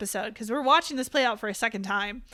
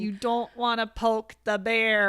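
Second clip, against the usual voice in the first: put-on Midwest accent; slower than usual. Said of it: "She's doing the Midwest accent again".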